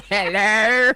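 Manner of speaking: hello broken up by laughter; laughing hello. Real, not acted. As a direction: giggle through the greeting. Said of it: "R A nine laugh is the best".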